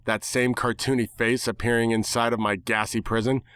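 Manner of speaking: plain reading voice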